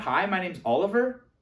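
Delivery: question-like upward lift on Oliver. Showing how ending sentences on a rise sounds unsure, rising uptalk intonation. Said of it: "my tonality is going up at the end".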